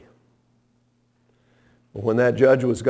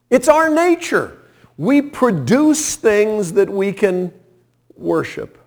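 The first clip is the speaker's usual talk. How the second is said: much higher, louder declaration; high exclaimed point; 8 semitones higher, 4 dB louder than usual. Real, not acted. Preacher to congregation, driving the point high and loud. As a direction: hit it high and hard.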